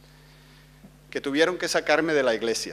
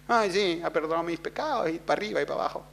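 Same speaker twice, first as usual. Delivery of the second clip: mock believer; 9 dB quieter, much faster than usual. Mocking complacent believer, fading.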